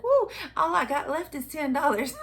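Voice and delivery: laughing, delighted whoop; laughing cheer. Retold or imitated. Shopper laughing that ten dollars is all she has left.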